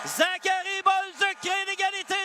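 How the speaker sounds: excited goal call. Real, not acted. (annonce exaltée de l'égalité)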